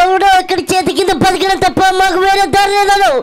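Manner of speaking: Prabhas voice. Pretend. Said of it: "Prabhas గారి voice".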